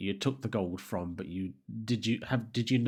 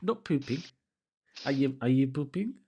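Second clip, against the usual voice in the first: high squeaky denial; 7 semitones higher, 5 dB louder than usual. Real, not acted. Joking denial.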